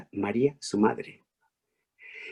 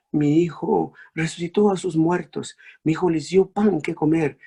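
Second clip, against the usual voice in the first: higher, urgent lament repeating mi hijo; mother's lament; 5 semitones higher than usual. Acted. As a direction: plead his innocence, aching. (María ante la cruz, lamento dolido)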